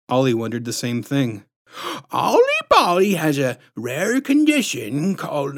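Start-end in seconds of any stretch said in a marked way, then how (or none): 2.1-5.6 high, swooping diagnosis with a squishy lisp; patronizing lisp. A narrator's reading. Bogus doctor diagnosing the boy, patronizing lisp. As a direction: announce it high, lisping and condescending. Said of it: "patronizing, squishy-throated lisp".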